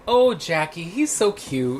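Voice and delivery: high, slow, cooing mom voice; doting mom. Retold or imitated. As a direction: gush over the brat like his mom. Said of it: "But Mom was like".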